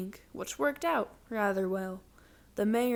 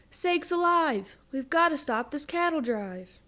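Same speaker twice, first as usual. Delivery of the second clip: excited; 5 semitones higher, 4 dB louder than usual. Acted. Sheriff calls for backup.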